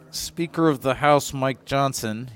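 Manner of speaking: words forced through clenched teeth; through gritted teeth. Acted. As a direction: say the name like it hurts. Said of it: "he says through gritted teeth".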